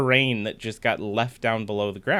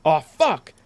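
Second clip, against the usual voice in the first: real curse; 2 semitones higher, 6 dB louder than usual. Real, not acted. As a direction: blurt it out in shock. Misclick ruins armor.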